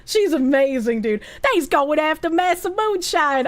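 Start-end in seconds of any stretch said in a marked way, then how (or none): 1.4-3.5 attempted mimicry of a voice actress's accent; rough, half-successful accent impression; Sawa's character accent. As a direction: badly imitate her put-on accent. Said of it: "I cannot do her accent".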